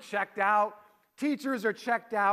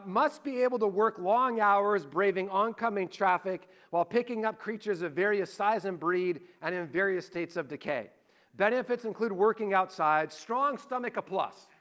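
read job ad. Acted. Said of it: "here's the job description".

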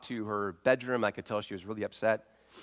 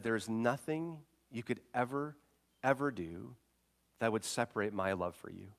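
soft reassurance; 5 dB quieter than usual. Retold or imitated. Father reassures daughter softly.

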